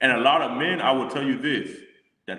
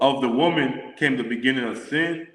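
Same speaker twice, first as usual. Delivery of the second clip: scripture reading. Acted. Reads the next verse.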